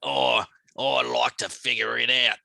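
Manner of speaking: put-on muddled Australian pirate accent. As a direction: attempt a pirate and drift into Australian. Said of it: "that's an Australian pirate".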